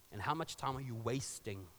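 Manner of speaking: plain. Shown as a demonstration. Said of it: "repeats the question".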